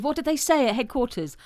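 a laughing, hammed-up policeman; laughing through the quote. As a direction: quote the policeman while cracking up. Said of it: "And then he said".

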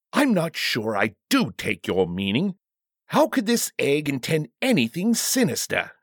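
lightly voiced, sceptical royal; puzzled king. King failing to take the bodyguard's meaning, mildly puzzled. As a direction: question it with mild disbelief.

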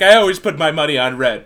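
lightly voiced old politician; Joe Biden impression. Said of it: "the way you do a Joe Biden accent".

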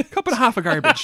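put-on high, loud laughing Israeli accent. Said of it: "That's an Israeli accent".

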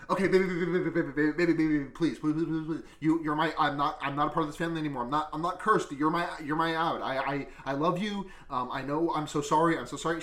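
rapid, stammered begging; mock frantic pleading. Alex begging his wife after everyone explodes, mock frantic. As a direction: babble repeated pleas in a rush.

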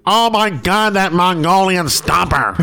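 high, slow excited announcer. Retold or imitated. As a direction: exclaim like an old host. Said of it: "He was like".

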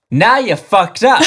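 high hammed-up fighter taunt; Soul Calibur catchphrase. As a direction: taunt like a fighting game hero. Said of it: "your Soul Calibur catchphrase".

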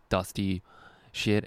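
ordinary talk, nothing marked

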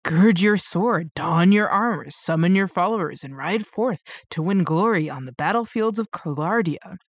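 epic, booming movie trailer voice; dramatic trailer read. Shown as a demonstration. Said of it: "let me read the store page".

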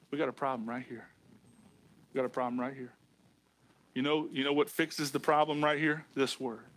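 very soft, low pulpit aside; quiet, sober confiding. Real, not acted. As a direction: drop right down and confide the problem. Preacher drops to sober confiding.

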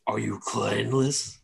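slow, lightly incredulous orc question. Acted. Laughing orcs question a clanless stranger, mild disbelief. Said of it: "Is this fuck for real?".

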